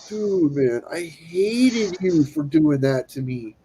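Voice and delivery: slow, drawn-out imitation of a friend; grudging confession. Friend looks back on the painful extraction, slow grudging admission. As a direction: stretch out the grievance.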